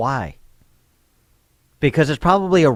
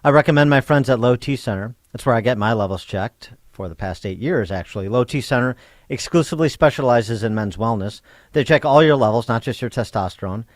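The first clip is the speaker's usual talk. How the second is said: radio ad read. Real, not acted. Host reads sponsor ad.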